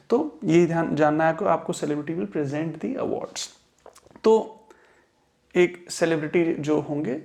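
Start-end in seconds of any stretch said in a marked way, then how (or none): 1.7-3.5 teacher's model with present as pri-ZENT; verb stress. Shown as a demonstration. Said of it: "verb की तरीके से इस्तेमाल".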